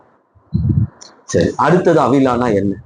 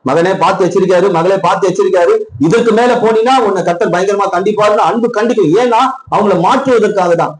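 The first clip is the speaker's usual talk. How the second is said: heated warning; 5 semitones higher than usual. Real, not acted. Preacher warns congregation, heated.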